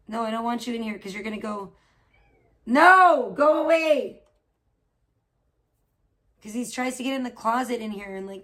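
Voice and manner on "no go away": high, loud No, Go away; shouting at the cat. Real, not acted. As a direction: chase the cat out with a yell. Cat trying to get in.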